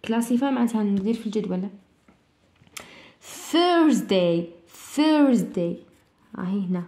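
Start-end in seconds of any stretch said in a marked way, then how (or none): 3.2-5.8 "Thursday" with a voiceless th at the start; teacher sounding out the word; model pronunciation. Shown as a demonstration. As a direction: say "Thursday" clearly so the class hears the th. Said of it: "according to the pronunciation".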